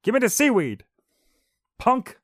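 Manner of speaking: very high, loud squeaky thug dolphin; tough dolphin voice. Acted. Armed dolphin demanding seaweed, high loud squeaky thug voice.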